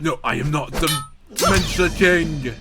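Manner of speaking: mock offended king; indignant denial. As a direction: refuse the title hotly. King rejects the name.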